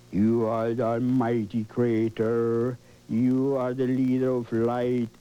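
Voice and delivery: grand commanding creator. Shown as a demonstration. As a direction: speak like a god calling light down. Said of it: "Talk like that".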